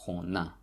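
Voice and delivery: khona stressed on the final a; khona, second syllable stressed; stress on last syllable. Shown as a demonstration. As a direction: put the weight on the last a in khona. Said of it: "So the stress falls".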